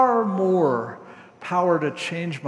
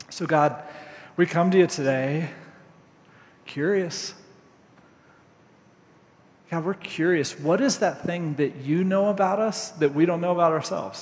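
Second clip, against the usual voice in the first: prayer. Acted. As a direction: pray gently to close the sermon. Closing prayer.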